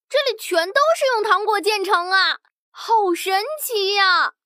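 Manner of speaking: put-on wide-eyed child in wonder; a little girl gasping at wonders; amazed little girl. Tongtong amazed in candy kingdom.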